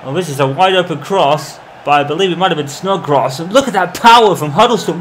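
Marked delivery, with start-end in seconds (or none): 3.4-5.0 rising, louder praise of the strike; excited. Real, not acted. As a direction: build to a thrilled cry. Replay of the goal.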